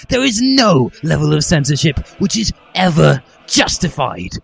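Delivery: rising indignant yell. A narrator's reading. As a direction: rant it at the hall. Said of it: "I yelled as I stood up".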